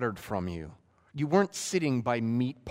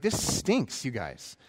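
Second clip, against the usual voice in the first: furious Moses; much slower than usual. Retold or imitated. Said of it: "he's furious".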